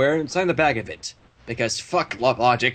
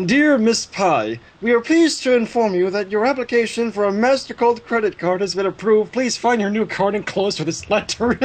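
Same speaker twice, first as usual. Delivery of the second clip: letter read aloud; 5 semitones higher than usual. Acted.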